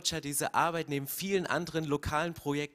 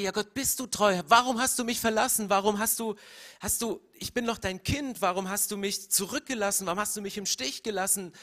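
higher, louder cry of a forsaken son; anguished plea; 3 semitones higher, 3 dB louder than usual. Acted. Preacher voicing Jesus on the cross crying to God, anguished. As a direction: plead with God as an abandoned child. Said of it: "stellt Gott diese Frage".

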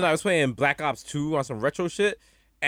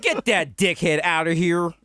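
mock announcer; slower than usual. Player quoting the Call of Duty announcer, slow and firm. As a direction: boom it out like the game's host voice. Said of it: "shout out to the announcer".

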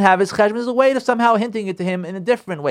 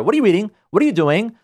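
nagging interrogation; 3 dB louder than usual. Retold or imitated. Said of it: "boom, just go to her".

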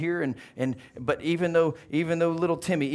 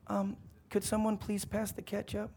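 soft, higher, timid request; small polite boy's voice; little voice; 5 semitones higher, 8 dB quieter than usual. Acted. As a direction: ask meekly, easily drowned out. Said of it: "they hear this little voice".

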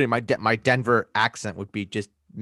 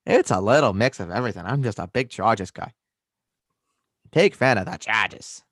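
put-on mixed American accent; muddled regional accent. Explaining the strange mix to co-host, mixed accent. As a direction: defend the odd accent in that same accent. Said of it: "tell where your accent's from anymore".

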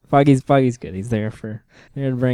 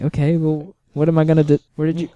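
confused quote; 5 semitones higher, faster than usual. Retold or imitated. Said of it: "It's like".

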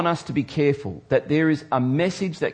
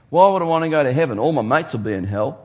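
fast, louder careless mock voice; scoffing worldly guy; 3 dB louder, faster than usual. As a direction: toss it off like a cocky partygoer. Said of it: "you hear people talk like this".

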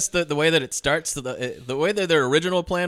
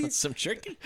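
imitated catchphrase; 8 semitones higher, 8 dB quieter than usual. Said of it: "catchphrase is".

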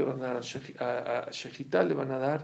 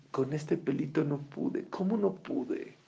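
lamenting wicked; slower than usual. Acted. The wicked lamenting over a tiny hair, slow and stunned. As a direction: wail at how little beat you. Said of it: "van a decir".

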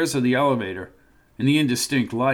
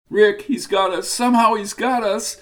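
despairing; 7 semitones higher than usual. Acted. Rita despairs in the elevator.

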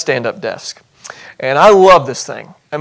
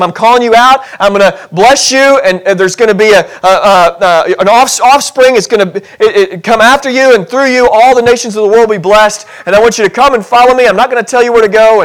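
voicing God; 3 semitones higher than usual. Preacher voicing God's call to Abram.

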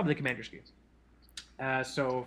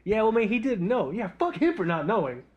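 patient fiance; 5 semitones higher, 3 dB louder than usual. Retold or imitated. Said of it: "She's just like".

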